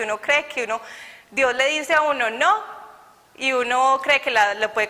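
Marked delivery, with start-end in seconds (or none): 2.3-2.6 firm no. Retold or imitated. God's firm no in story.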